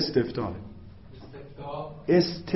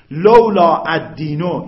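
slow, louder drawn-out phrase; slow Arabic reading; 9 dB louder, slower than usual. Acted. Teacher reads out the Arabic phrase slowly. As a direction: read the phrase slowly for the class.

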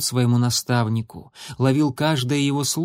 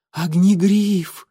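higher, louder slow cry; exclamation; 6 semitones higher, 4 dB louder, much slower than usual. A narrator's reading. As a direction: cry out his name amazed. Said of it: "воскликнула принцесса".

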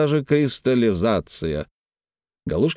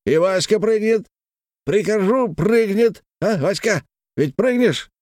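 put-on high drunken yell; high boastful drunken cry; 10 semitones higher than usual. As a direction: bellow it out boastfully. Galushkin boasting on.

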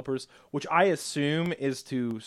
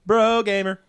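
louder, higher hype-bro call; loud bro gamer; 8 semitones higher, 10 dB louder than usual. Acted. Teasing friend with bro tag.

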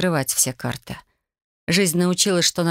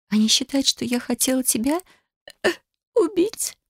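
near tears; 9 semitones higher than usual. A narrator's reading. Shocked accusation, near tears.

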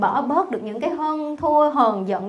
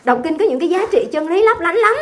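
mock gushing; 2 semitones higher, 4 dB louder than usual. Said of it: "cô nói vậy nè".

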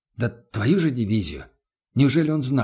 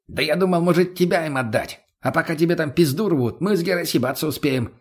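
Mutny's voice; 4 semitones higher than usual. Acted. Mutny's crude joke voiced.

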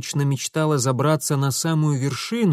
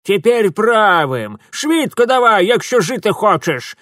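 put-on old Ukrainian woman croaking commands; 7 semitones higher, 6 dB louder than usual. A narrator's reading. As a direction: croak urgent orders. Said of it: "прохрипела старуха".

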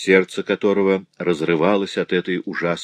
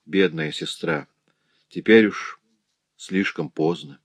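compassionate. Acted. Брат с состраданием утешает сестру, тихо. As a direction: gently pity the dying sister. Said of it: "с состраданием сказал ей".

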